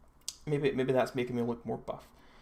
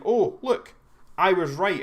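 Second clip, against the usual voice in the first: higher, louder imagined reader; acted-out eureka moment; mock vindication; 6 semitones higher, 6 dB louder than usual. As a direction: play someone lightly crowing over being proved right. Imagined reader triumphant at agreeable article.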